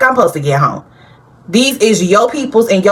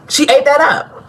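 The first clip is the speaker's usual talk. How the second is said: higher, thrilled "She ate that up."; hyped emphasis; 8 semitones higher than usual. Real, not acted. Vlogger praising a singer's comeback, thrilled and pitched up. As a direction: repeat it with delight, pitched up.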